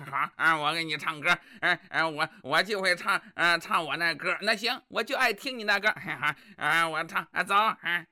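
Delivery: low, halting, full of er-er; stammering dullard husband. Acted. Husband making excuses to his wife, low halting stammer.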